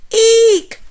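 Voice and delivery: loud, high shriek; shrieking in panic; startled squeal; frightened cry. A narrator's reading. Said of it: "Hugly cried".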